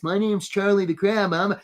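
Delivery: lightly voiced cartoon crab; a hint of a silly crab voice; Charlie the crab. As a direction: introduce yourself as a comic crab. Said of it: "Charlie talks like this".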